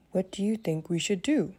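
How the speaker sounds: lightly voiced tired Mickey; a hungry friend, a hint of weariness. Mickey asks for advice.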